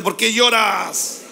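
"¿Por qué lloras?" slowed right down, each word weighted; preacher urges the congregation to say it strongly, slowly. Shown as a demonstration. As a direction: call it out slow and strong so all join in. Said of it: "Vamos, dígalo fuerte".

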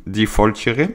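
slow, hammed-up German accent on the name; mock German accent. Streamer teasing a chat user's name in mock German accent. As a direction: say the username like a joking German. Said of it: "avec mon très bel accent allemand".

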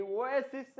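last ওয়েসিস slowed, ending in voiced জ; slow ওয়েসিস with j for final s; final j sound. Shown as a demonstration. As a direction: buzz the end of ওয়েসিস like j. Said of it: "জ লাস্টে".

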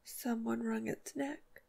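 slow, softened, grave delivery; slow and deep. A narrator's reading. The sheriff's wife realises the bird was killed, slow and deep. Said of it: "in a voice that was slow and deep".

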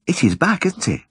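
high, gentle village woman; shy woman's voice. Acted. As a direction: lift the voice for the shy wife. Mrs Cundall voiced.

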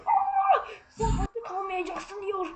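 laughing. Real, not acted. Gamer laughing at a funny sign, slow and giggly. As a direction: laugh while reading it out.

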